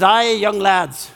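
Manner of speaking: put-on slow, drawn-out Scottish accent; lightly imitated Scottish lilt. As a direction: imitate a Scottish professor, slowly. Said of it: "this great Scottish accent".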